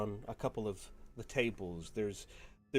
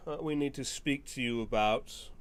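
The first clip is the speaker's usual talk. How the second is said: high, loud start easing down as he talks; distracted father; 4 semitones higher, 8 dB louder than usual. Father speaking over his shoulder to daughter, high and loud. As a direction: toss it over your shoulder, busy. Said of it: "speaks over his shoulder and goes".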